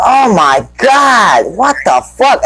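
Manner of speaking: high, drawn-out shocked shout of disbelief; retold gasp of shock, shouted high and slow; shocked outcry. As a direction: blurt it out as if you can't believe your eyes. Retold shocked outburst at porn scene.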